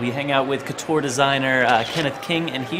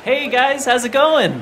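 gushing red carpet chatter; 7 semitones higher, 6 dB louder than usual. Acted. Calling out to friends.

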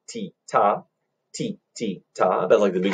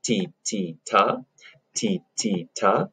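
slow spoken rhythm. Shown as a demonstration. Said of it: "So let's try that together".

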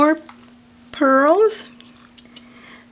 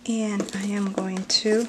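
soft whispered aside; 5 dB quieter than usual. Real, not acted. Unboxing a gift, she whispers to herself. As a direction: whisper it to yourself.

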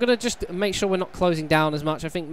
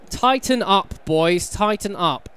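urging shout; 4 semitones higher, 5 dB louder, slower than usual. Real, not acted. Urging his team on.

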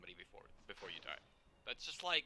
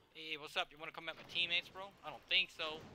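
taunting; 5 semitones higher than usual. Acted. Taunting enemy in game.

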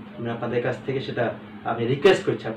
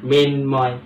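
মিনময় as two distinct beats, "মিন", "ময়"; split into syllables; 4 dB louder, much slower than usual. Shown as a demonstration. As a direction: separate the two parts of মিনময়. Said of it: "তাহলে মিন একটা". (মিনময় দুই ভাগে আলাদা করে উচ্চারণ)

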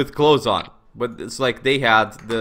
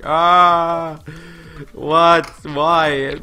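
startled protest; 6 semitones higher, 7 dB louder, much slower than usual. Retold or imitated. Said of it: "He's like".

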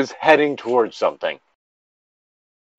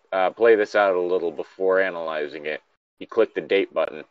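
even, mostly lowered reading voice; story narration; 3 semitones lower than usual. Acted. Friend reads the story passage aloud, as steady narration.

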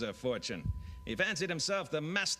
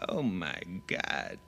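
Charlton Heston; 8 semitones lower, slower than usual. Retold or imitated. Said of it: "how to say his favorite line".

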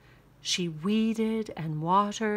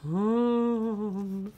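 ghost humph. Acted. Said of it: "said the ghost".

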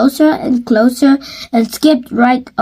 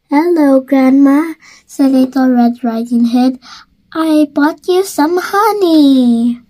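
put-on little girl voice; 2 semitones higher than usual. Little girl greeting grandma.

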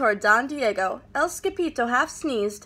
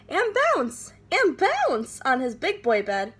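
bouncy high; 3 semitones higher than usual. Acted. Kitten bouncing on bed.

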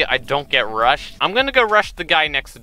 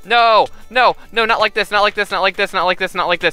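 panicked pleading; 2 semitones higher than usual. Real, not acted. About to die, panicked pleading.

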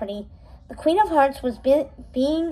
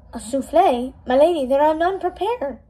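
croaking; 2 semitones higher than usual. Acted. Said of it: "the butler croaked".

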